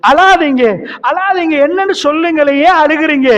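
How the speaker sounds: rising high, pleading don't cry; the Prophet begging a weeping Umar not to cry, high and pleading. Acted. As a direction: coax a weeping friend to stop crying. Prophet voiced consoling weeping Umar.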